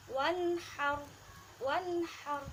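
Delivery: wanhar straight to the n; wanhar without alif. Shown as a demonstration. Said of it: "alifnya tidak dibaca".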